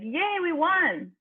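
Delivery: high, slow cheer like a win at a game. Shown as a demonstration. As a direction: cheer it out like your team just won. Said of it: "say it like you're cheering at a, at a game".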